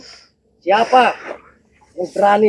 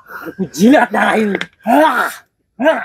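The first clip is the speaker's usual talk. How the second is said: sobbing. Acted. Licks blood after being struck.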